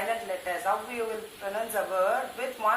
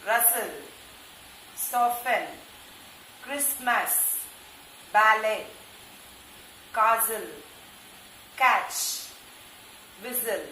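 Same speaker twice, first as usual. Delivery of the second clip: read aloud; slower than usual. Shown as a demonstration. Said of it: "Say loudly along with me".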